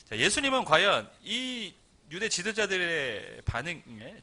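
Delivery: normal talking voice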